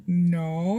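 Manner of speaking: a touch of sadness, lightly replayed; mock sad. Admitting no rice to partner, mildly sad. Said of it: "I said it all sad".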